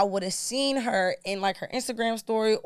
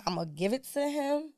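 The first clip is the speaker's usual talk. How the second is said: calm gentle; 2 semitones higher than usual. Retold or imitated. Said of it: "I told her just like this".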